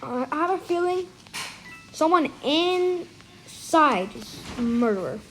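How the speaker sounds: slow, lightly put-on alien. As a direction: drawl it out like a mild alien. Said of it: "I'm actually doing an alien impression".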